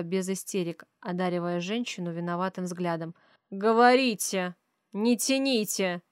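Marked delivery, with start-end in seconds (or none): 3.5-6.0 slow, loud, cocky demand with Говорите hit hard and falling; a rich bully barking orders, stretching Говорите out; brash demanding man. Acted. Rich father cuts into the mothers' talk, brash and loud. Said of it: "Самоуверенный наглый голос мужчины".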